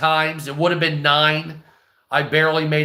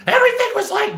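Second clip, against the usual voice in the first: very high, fast puppet-like falsetto; Senior Wensla; much faster than usual. Shown as a demonstration. Streamer recalls an old character voice, high and fast. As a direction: jump into a squeaky character voice. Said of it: "like a Senior Wensla's voice".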